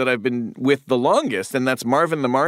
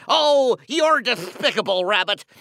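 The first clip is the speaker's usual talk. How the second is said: higher, lisping indignant cartoon duck; Sylvester with attitude; 5 semitones higher than usual. Shown as a demonstration. Daffy insulting the rabbit, indignant lisping voice. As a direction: spit it out with lisping contempt. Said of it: "as Sylvester, just with an attitude adjustment".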